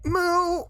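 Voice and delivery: high, small whimpering moo for a redeem; whimpered moo. Pretend. Streamer doing a cow redeem for chat, whimpering moo. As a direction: squeak out a shy little moo. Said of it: "that was a whimper".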